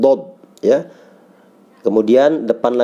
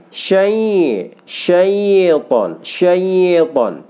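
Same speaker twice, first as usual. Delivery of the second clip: syaiton pressed hard, higher; 6 semitones higher, much slower than usual. Shown as a demonstration.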